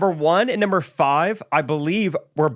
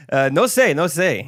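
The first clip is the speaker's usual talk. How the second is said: put-on Spanish accent; slower than usual. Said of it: "That's just a Spanish accent".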